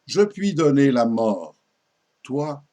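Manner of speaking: formal verse declamation, pauses at line ends; poem recitation. Acted. Reciting a king's homage to the poet Ronsard, poem recitation. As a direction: declaim each line with deliberate phrasing.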